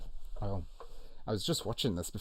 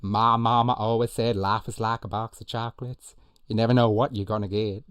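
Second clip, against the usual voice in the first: loud, slightly raised character voice; movie quote impersonation; 2 semitones higher, 9 dB louder than usual. Acted. Host impersonating a film line for quiz players, loud character voice. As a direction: project it as a big film line. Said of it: "I hope you're loving all my impersonations".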